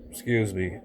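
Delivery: burping. Real, not acted. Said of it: "and I'm just burping constantly".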